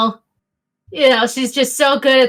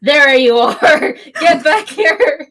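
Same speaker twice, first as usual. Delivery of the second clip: mild hammed-up ranger call, drawn out; park ranger; 3 semitones higher, 5 dB louder, slower than usual. Park ranger to runaways caught in the park, lightly hammed-up authority. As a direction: slowly call out like a ranger catching someone. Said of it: "the park ranger's like".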